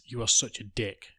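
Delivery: half-hearted yell across a counter; retold yell. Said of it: "the girl behind the counter yells".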